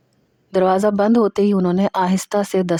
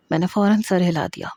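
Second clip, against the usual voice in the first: plain reading voice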